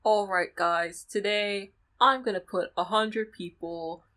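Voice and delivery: slow, upbeat YouTuber intro; clickbait video narrator. Retold or imitated. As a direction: hype it up like a challenge video. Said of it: "YouTuber voice is just a Chris McLean ex-, like, impression".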